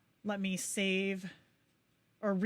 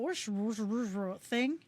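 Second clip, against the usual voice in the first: imitated whooshing glitch. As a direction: run the whooshes together as a garbled noise.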